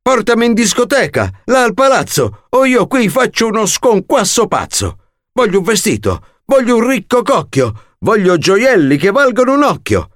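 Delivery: put-on a spoilt girl listing every wish; bratty demands. A narrator's reading. Cinderella ranting her demands. (capricciosa e prepotente)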